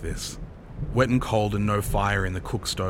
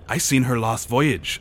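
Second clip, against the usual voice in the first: higher, louder rustic sailor; sailor chiming in; 4 semitones higher, 5 dB louder than usual. Acted. Another sailor rejoining the ghost talk, eager. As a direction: jump in with your own sighting.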